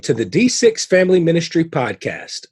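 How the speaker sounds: polished announcer welcome; podcast intro read. Real, not acted. Host welcomes listeners to a family ministry podcast, announcer read. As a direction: welcome listeners with punched key words.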